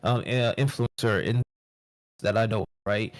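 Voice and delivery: audio cutting out; bad connection. Real, not acted. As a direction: voice dropping in and out. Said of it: "You're cutting out".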